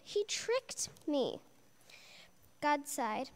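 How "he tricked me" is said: whiny Eve. Acted. Eve blames serpent.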